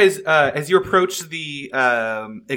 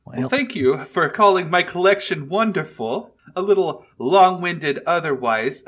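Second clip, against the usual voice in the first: dragon voice; 5 semitones higher, 3 dB louder than usual. Acted. Dragon replies to the party.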